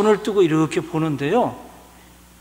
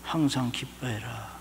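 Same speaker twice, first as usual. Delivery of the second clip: soft, slow and low, 항상 leaned on; a still small voice within; God's quiet voice in the heart; inner voice; 5 semitones lower, 9 dB quieter, slower than usual. Retold or imitated. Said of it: "갑자기 제 마음속에".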